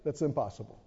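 low, quiet devil voice; a hint of a sly devil; devil's taunt. Preacher voicing the devil to his congregation, low and quiet. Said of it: "the devil will come immediately and say".

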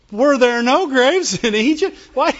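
whining. Acted. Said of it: "They whined".

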